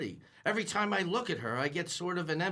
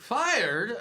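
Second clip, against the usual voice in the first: shocked echo; 3 semitones higher, 6 dB louder than usual. Acted. Riley stunned at being fired.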